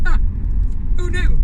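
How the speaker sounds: mock surprise. Real, not acted.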